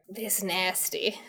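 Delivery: slow hushed half-whisper. Acted. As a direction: barely breathe the words. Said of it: "You think you hear him whisper".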